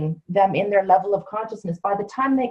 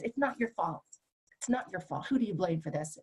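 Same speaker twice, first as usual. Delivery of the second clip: very soft, hushed and careful; gentle reassurance; 3 semitones lower, 11 dB quieter than usual. Shown as a demonstration. Coach to a client who's down here, softly reassuring. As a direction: drop right down, soothe someone who is low. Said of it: "yelling at somebody when they're down".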